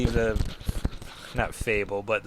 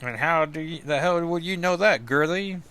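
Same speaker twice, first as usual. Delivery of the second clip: Hood; 5 semitones higher than usual. Acted. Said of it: "then it's the Hood, Parker Robbins".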